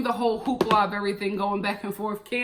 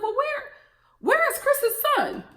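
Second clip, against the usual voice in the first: incredulous; 12 semitones higher than usual. Retold or imitated. Mock question at the wedding.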